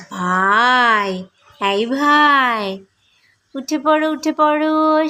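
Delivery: slow sing-song calling to wake; coaxing wake-up call. Real, not acted.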